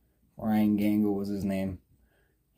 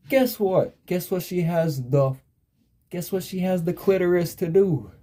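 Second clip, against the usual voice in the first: worked-up disbelief; 7 semitones higher than usual. Real, not acted. Building up outrage at secretary.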